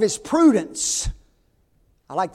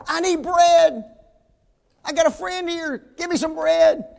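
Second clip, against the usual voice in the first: louder, persistent pleading; 8 semitones higher, 5 dB louder than usual. Acted. Man keeps pestering sleeping neighbor, louder persistent demand. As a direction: keep hollering, refuse to give up. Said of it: "he just gets louder and louder".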